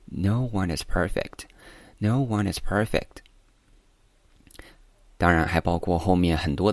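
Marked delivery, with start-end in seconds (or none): 0.0-3.2 slow, with "no" held longer than "one"; contrasting word length. Shown as a demonstration. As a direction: stretch "no" and keep the phrase soft. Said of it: "对比，no和one这两个单音节单词的长度". (拉长 no，对比 one 的长度)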